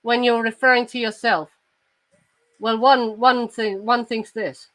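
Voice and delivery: posh British accent, carefully enunciated; measured Received Pronunciation with pauses; Queen's English. Shown as a demonstration. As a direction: demonstrate very proper Queen's English. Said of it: "That's the Queen's English".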